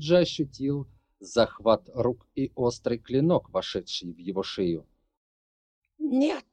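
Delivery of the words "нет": shouting. Acted. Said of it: "закричала Шахра".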